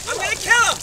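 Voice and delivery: mock-furious yell; angry outburst. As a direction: explode on kill. Mounting anger repeated.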